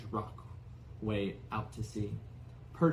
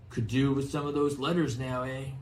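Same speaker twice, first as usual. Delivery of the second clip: cheerful; 4 dB louder than usual. Acted. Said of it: "he said cheerfully".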